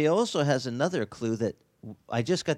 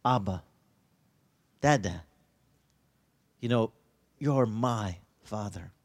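tender cry to father; 4 semitones lower than usual. Acted. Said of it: "what Jesus cried out to his father".

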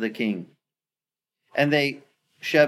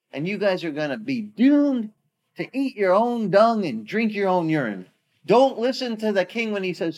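bully's threat; 8 semitones higher than usual. Retold or imitated. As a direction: gloat over their doom. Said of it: "The bully is back".

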